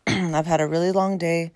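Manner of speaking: tired, raspy voice after a long day. Real, not acted. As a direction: let the voice rasp a little from fatigue. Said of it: "so excuse my raspy voice".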